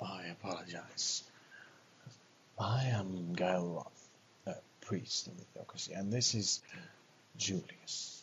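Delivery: put-on breathy voice. Voicing a priest character introducing himself: put-on breathy voice. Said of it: "I am putting a bit of a breathy voice on".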